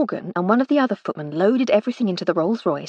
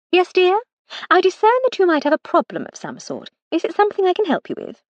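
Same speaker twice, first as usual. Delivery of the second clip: higher, mock-solicitous lady of the house; Lady Hardcastle, arch; 11 semitones higher, 3 dB louder than usual. Lady Hardcastle teasing her maid about a problem, arch and higher. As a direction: sweetly pretend concern, teasing.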